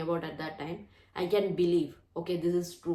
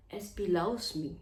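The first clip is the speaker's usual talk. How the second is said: affirming with feeling; 4 dB quieter than usual. Shown as a demonstration. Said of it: "I'm not feeling".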